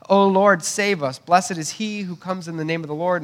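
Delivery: pleading crowd shout; crowd crying out. Retold or imitated. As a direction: cry out for rescue like the crowd. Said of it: "They're crying out for a king".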